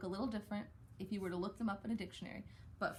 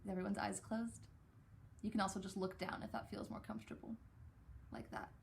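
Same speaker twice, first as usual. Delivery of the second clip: soft quiet voice; 7 dB quieter, faster than usual. Real, not acted. Eyes-closed quiet guidance.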